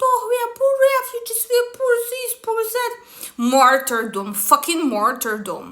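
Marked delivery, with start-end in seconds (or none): 0.1-2.9 high, rushed mocking whine; mock crying wolf. Vlogger mimics refugees pleading online, mock crying wolf. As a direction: imitate a pitiful plea in an exaggerated high voice. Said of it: "they are cry wolfing all over internet".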